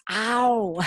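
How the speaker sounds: "au" said like ow when hurt; a long gliding "au", ah into oo; pain-cry "au". Shown as a demonstration. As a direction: draw out "au" as a little ouch. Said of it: "Cuando te haces daño".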